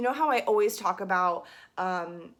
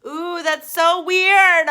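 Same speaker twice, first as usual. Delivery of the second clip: surprised; 9 semitones higher, 13 dB louder, much slower than usual. Real, not acted. Reacting to her own sound.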